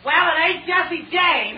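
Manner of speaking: slow, high dopey cop. Acted. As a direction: play the slow dim policeman. Dim policeman character voice.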